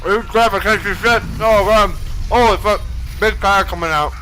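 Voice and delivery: loud, high startled outburst; excited shout. Real, not acted. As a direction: yell it out in shock. Caster reacts to big play.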